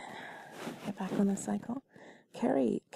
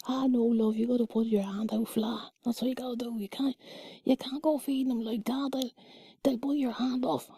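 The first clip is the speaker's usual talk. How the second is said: lightly voiced Irish yobbo, whispered; a hint of a brash local guy giving advice; local lad voice; 4 semitones higher, 5 dB louder than usual. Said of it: "Sorry, that's probably not a good voice".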